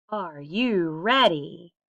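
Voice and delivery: slow, drawn-out announcer question; recording take. Shown as a demonstration. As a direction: stretch it out for the mic. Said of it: "I'm gonna hit record and record it".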